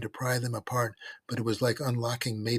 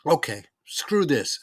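slow, loud, higher declaration; fed-up announcement; 4 semitones higher, 5 dB louder, slower than usual. A narrator's reading. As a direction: announce it loudly and slowly, fed up. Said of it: "announced Gene".

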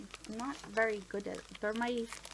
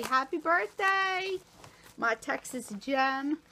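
sing-song birthday greeting; 2 semitones higher, 7 dB louder than usual. Real, not acted. Greeting her friend Trish on her birthday, drawn-out and bright. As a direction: call it out like a cheer to a friend.

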